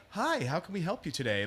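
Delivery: a hint of a hushed upscale receptionist; soft, courteous welcome, lightly put on. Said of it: "one of those upscale places".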